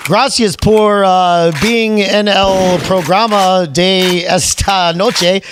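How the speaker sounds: slow, halting Spanglish; playful gringo Spanglish. Pretend. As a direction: stumble through Spanish as an English speaker. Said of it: "That's some Spanglish for you".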